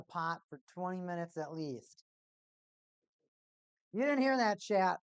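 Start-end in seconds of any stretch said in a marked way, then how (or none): 3.9-5.0 loud joking aside. Real, not acted. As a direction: blurt it to the chat.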